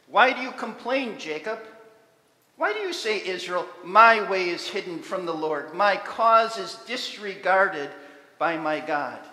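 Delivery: loud, pressing voice of God questioning Jacob; God's rebuke. Acted. God rebukes Jacob, loud and searching. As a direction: demand an answer from wavering people.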